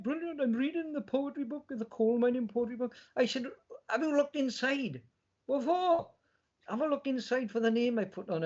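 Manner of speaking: retold phone call.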